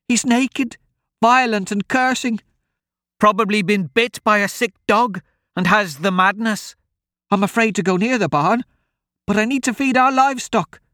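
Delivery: high-pitched, anxious country woman; frightened old woman. Acted. Old woman tells travellers about the intruder, frightened. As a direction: pour out your fears in a high old woman's voice.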